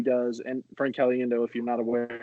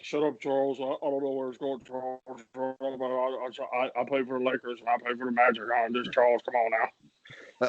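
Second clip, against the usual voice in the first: shaky attempt at a mumbled star impression; lightly put-on mumble, trailing away; a half-successful impersonation, mumbling through the argument; Shaq. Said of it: "I can't do Shaq very good".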